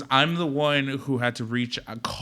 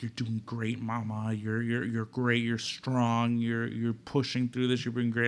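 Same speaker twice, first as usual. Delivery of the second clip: soft nurse encouragement; 6 dB quieter than usual. Retold or imitated. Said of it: "she'd come to you and be like".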